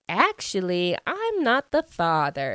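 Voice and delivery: lightly hammed-up TV verdict, pitch rising; talk-show paternity reveal. Dad disowning his son, mock talk-show reveal. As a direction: announce it like a daytime paternity result, lightly mocked. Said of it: "kind of like a, a Maury show".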